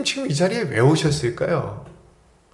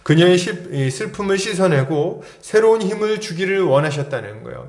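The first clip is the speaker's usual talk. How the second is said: normal talking voice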